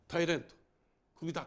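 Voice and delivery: blunt, loud Tokyo-dialect dismissal. Shown as a demonstration. Racketeer sacking the company president, loud Tokyo dialect. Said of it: "これは東京弁だとね".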